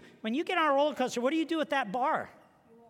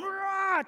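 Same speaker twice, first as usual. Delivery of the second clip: mock angry roar; 8 semitones higher than usual. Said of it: "they went from".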